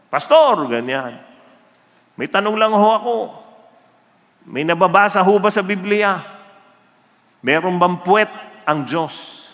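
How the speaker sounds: high, polite asking voice; a churchgoer politely asking the pastor; mock earnest churchgoer. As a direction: ask it with innocent sincerity. Congregant asks pastor silly question.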